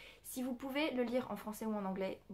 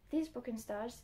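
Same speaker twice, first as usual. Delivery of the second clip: book title said in a proud English accent; slower than usual. Shown as a demonstration. English accent, showing off the English title to viewers. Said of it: "Vous avez vu mon accent".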